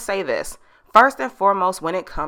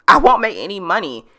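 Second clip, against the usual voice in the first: normal talking voice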